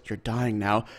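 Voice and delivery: imitated cold-blooded calm, understated; chillingly calm retelling of a killer. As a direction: say it evenly and unhurried, as the calm shooter. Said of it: "very calmly".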